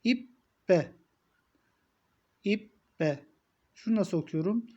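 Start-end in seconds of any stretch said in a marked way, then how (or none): 0.0-3.2 İbbe with the b held double; doubled b with kesre. Shown as a demonstration. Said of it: "Altında yani esre".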